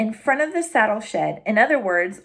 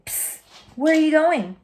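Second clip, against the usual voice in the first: hushed, higher little dog; sneaky Drover; 6 semitones higher than usual. Acted. Timid dog peeks from shed, hushed and nervous. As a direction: lean out and hiss the question.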